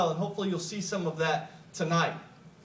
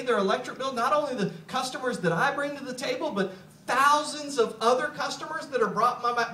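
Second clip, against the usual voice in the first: excited thought; 5 semitones higher than usual. Retold or imitated. Speaker retells first hearing about residual income, rising excitement. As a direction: let the excitement climb to the end. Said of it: "I thought".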